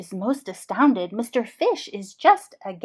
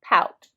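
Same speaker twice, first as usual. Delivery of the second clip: a drawn-out sulky pout; 1 pouty sound; 6 dB louder than usual. Shown as a demonstration. Teacher showing a sad pout. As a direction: push the lips out and sulk the word. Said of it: "you can see the pout pout fish is very sad".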